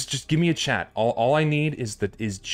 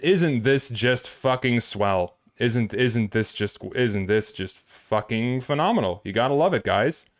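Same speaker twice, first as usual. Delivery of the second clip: sarcastic. Real, not acted. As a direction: drag it out, mocking the broken setup. Sarcastic rant at broken stream setup.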